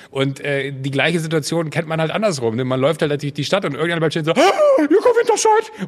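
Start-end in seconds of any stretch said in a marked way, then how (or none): 4.3-5.9 high, loud fan shriek; star-struck squeal. Retold or imitated. A passerby recognizing Joko in the street, loud high squeal. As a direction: squeal the name like a starstruck fan.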